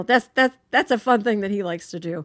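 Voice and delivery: ordinary talk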